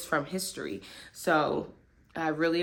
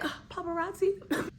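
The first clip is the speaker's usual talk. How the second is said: high, airy mock celebrity sigh; mock diva; 11 semitones higher, 5 dB quieter than usual. Joking about the camera flash in a mock diva voice. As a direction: play the fed-up star dodging cameras. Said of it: "I'm like".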